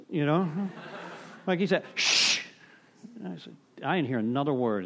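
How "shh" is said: a sharp, louder shushing hiss; retold shush. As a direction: shush him like the old timer did. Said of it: "some old timer shushed my ass".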